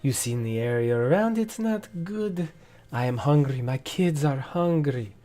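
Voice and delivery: a merchant held by his collar, pleading; flustered merchant. Acted. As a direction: beg your way out of trouble. Sensu pleads, grabbed by collar.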